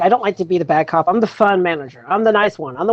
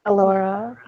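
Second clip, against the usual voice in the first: high, eerie doll voice; sing-song creepy doll; 4 semitones higher, 4 dB quieter, faster than usual. Acted. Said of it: "Why are you saying it in a creepy doll voice".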